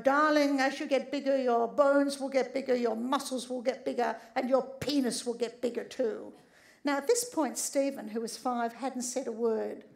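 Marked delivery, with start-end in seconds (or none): 0.0-6.3 doctor mode. Retold or imitated. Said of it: "go back into doctor mode".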